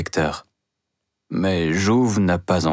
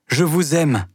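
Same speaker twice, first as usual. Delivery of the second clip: the second "je vous aime" bursts out, pleading; passionate outburst; 8 semitones higher than usual. Acted. Mouret's love declaration repeated.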